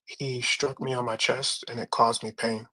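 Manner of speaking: slow, deliberate English rendering, stress on caused; careful translation. Shown as a demonstration. Streamer translates the hadith for the chat, slow and deliberate. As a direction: spell out the translation slowly. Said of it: "So basically it says".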